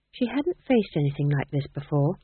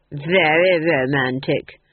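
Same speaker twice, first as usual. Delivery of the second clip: slow, louder, contemptuous; mocking dismissal; 6 dB louder, slower than usual. The Duke dismissing the child's challenge, contemptuous. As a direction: wave the threat away with contempt. Duke's voice in the story.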